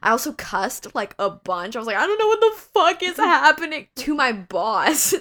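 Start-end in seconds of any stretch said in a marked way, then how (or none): 2.0-3.9 high, loud imitated sobbing cry; retold sobbing. Cursing to her boss, imitating her loud high sobbing. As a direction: wail it like you're falling apart.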